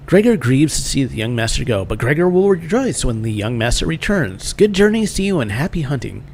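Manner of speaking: lightly voiced rat-man, rising and falling; humanoid rat shopkeeper. Shopkeeper bidding young master goodbye, lightly voiced rat creature. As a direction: play a quaint ratty merchant, lightly.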